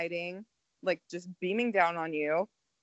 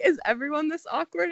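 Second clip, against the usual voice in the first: squeaky mock question; 8 semitones higher than usual. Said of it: "I'm like".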